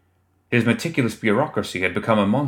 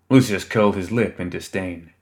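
plain reading voice

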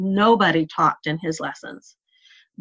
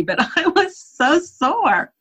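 laughing through it; 4 semitones higher than usual. Real, not acted. Laughing about crawling up stairs.

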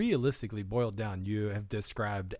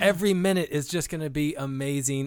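sarcastic excitement; 5 dB louder than usual. Pretend. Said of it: "That's like me going".

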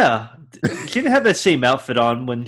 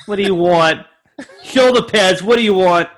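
laughing mock; 4 semitones higher, 4 dB louder than usual.

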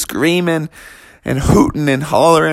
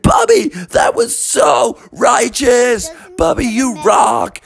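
higher, slow, cheering; delighted parents; 9 semitones higher, slower than usual. Acted. Parents praise after ride.

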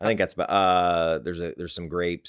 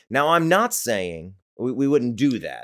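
mock hedging voice; 6 semitones higher, 5 dB louder than usual. Mocking hedging again.

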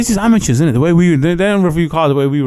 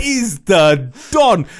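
passionate; 6 semitones higher, much slower than usual. Real, not acted. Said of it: "never seen you so passionate".

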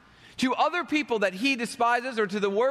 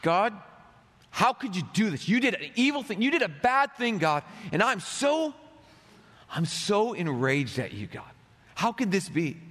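a hint of anger at God, lightly voiced; understated indignant rant; mock raging prayer. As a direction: complain to God as if betrayed. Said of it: "That's what Jonah feels".

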